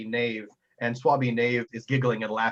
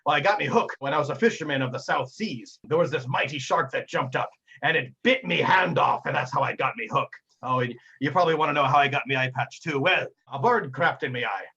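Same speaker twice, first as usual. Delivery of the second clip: a hint of pirate sailor dialect; lightly voiced old sea dog; 2 semitones higher than usual. Sailor explaining his peg leg to a lad, lightly voiced sea dog. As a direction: tell a tall tale as a lightly played salty sailor.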